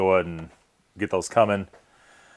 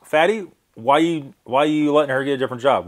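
imitating viewers; 5 semitones higher than usual. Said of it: "They're saying".

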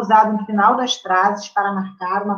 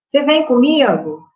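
"Você vem comigo?" slower, as a lifted question; question intonation; 2 semitones higher, 3 dB louder than usual. Shown as a demonstration. Teacher modelling a direct question for the class. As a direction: ask "Você vem comigo?" slowly with a clear question tune. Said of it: "Faz a pergunta".

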